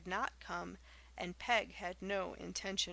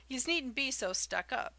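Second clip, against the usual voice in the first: louder, higher, mocking jeer; loud derision; 5 semitones higher, 6 dB louder than usual. A narrator's reading. Peg jeering at the smart young ladies, loud and derisive. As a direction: sneer it loudly at them. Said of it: "loudly and derisively".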